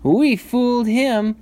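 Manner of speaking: high, loud, drawn-out piggy crow; laughing little pigs. A narrator's reading. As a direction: crow over a trick as a piglet. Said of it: "laughed the two little pigs".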